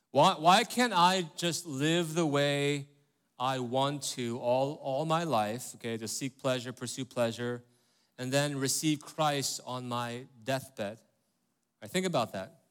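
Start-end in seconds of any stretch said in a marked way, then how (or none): 0.1-11.0 slow, drawn-out mock reasoning; friend's argument. Pastor imitates a college friend's argument, slow and teasing. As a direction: lay out the friend's case slowly, half teasing. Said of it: "basically argue".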